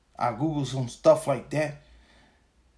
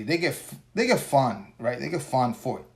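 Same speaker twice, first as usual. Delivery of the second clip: tripping over words; tired stumbling speech; stuttering; 4 dB quieter than usual. Real, not acted. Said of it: "my words stuttering".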